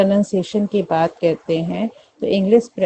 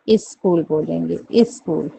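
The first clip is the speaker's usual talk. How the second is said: UP-style "इस स्कूल" with I before S; UP accent. Shown as a demonstration. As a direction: imitate UP speakers' "is-kool". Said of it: "ई लगा देंगे आगे".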